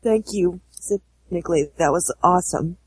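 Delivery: dry, sarcastic thank you; a deadpan, cynical thanks. Pretend. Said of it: "thank cynically".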